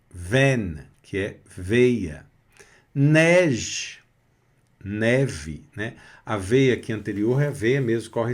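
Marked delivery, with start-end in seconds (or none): 2.9-4.0 Neige, clear model; French word Neige. Shown as a demonstration. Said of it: "som de E".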